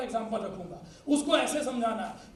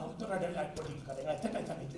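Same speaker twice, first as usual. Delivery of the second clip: overconfident recruit; 8 semitones lower, 8 dB quieter than usual. Acted. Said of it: "कुछ लोग बोलते हैं".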